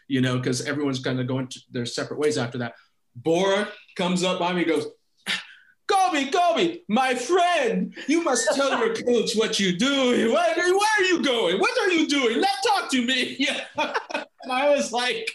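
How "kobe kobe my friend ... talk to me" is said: put-on accented coach. Coach Bora catching the scorer on the way to the bus, high eager voice. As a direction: chase him down, suddenly friendly. Coach pleading with new star.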